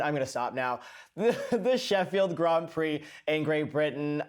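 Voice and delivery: laughing. Real, not acted. Breaking off laughing.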